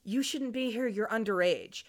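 calm, even mild reproof; matter-of-fact, unheated objection; reasonable. Retold or imitated. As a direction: retell it as a measured telling-off. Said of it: "he is acting pretty reasonable".

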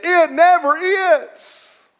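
"never" drawn out slowly and pitched high; تشديد بطيء ومرتفع على كلمة "never"; stress on never. Real, not acted. Emphatic reply.

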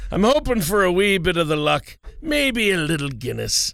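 light put-on Irish brogue, playful; a hint of Irish brogue, half-joking. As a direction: lilt it like a mock Irishman on Saint Patrick's Day. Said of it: "You got a good little brogue".

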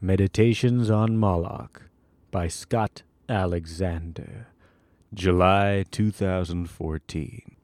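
solemn, measured reading of a grand essay; grandiose essay reading. Acted. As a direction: read it like a weighty proclamation. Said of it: "read it in the only way I felt appropriate for such a grandiose".

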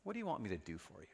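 soft, quick gentle asking; gentle question. Acted. Jesus gently asks the blind man what he wants. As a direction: ask him kindly. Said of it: "Jesus asked him".

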